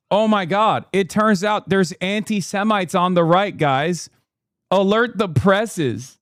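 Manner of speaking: mock alarm at stale news; sarcastic surprise. Streamer mocking obvious news to viewers, sarcastic surprise. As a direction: play at being amazed, dripping with sarcasm.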